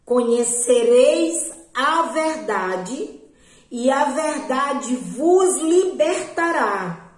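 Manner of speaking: slow, calm voice of authority; unhurried and commanding, yet gentle; voice of God in her dream. Retold or imitated. God speaking to her in a dream, slow and calm with authority. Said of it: "E aquela voz dizia assim".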